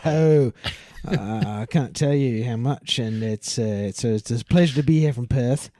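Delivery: lightly voiced Aussie guest; milder mock Australian; put-on Australian accent. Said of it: "You think anyone's buying this?".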